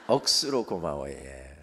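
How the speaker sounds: Gyeongsang dialect thanks, strong start, trailing low. Shown as a demonstration. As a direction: punch the first word in Gyeongsang dialect. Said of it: "또 경상도 말로는".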